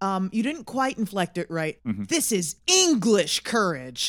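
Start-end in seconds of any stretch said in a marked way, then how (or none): 2.0-4.1 put-on loud, very heavy American English accent. Quoting a prisoner character's first line, in a thick american accent. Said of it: "the thickest American".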